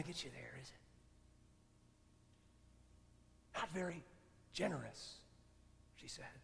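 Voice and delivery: hushed, gently probing questions; soft rebuke. Retold or imitated. Mentor quietly asks her protégé if he wants peace, hushed. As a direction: softly press him with the questions.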